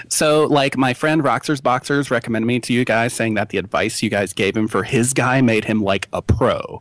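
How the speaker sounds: lightly voiced email writer; put-on reader voice. Host reading Ryan's email to co-host, lightly put-on voice. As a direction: read it out in a playful character voice. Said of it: "I'm gonna read this in a voice".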